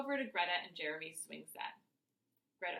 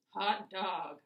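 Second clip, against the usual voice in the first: mom's goofy voice for the dog; Hank voice; 6 dB louder than usual. A narrator's reading. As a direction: speak for the dog, playfully. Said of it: "Mom says in her Hank voice".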